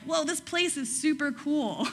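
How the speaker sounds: mock wide-eyed wonder; awestruck Jacob. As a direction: play Jacob as starry-eyed and gushing. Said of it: "So Jacob's like".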